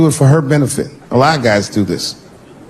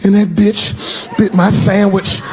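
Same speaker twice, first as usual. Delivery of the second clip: high, slow shouted rhyme; whiny kid; 8 semitones higher, slower than usual. Retold or imitated. Son quoting bullies to dad, high slow shout. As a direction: chant the insult like a kid.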